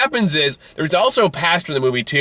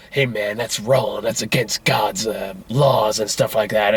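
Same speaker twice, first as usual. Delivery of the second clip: retold street preacher; 6 semitones lower, slower than usual. Voicing the preaching homeless man.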